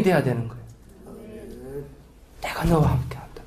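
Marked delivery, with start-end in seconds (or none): 2.4-3.4 soft repeated promise. Shown as a demonstration. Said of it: "그 말씀 딱 듣는데".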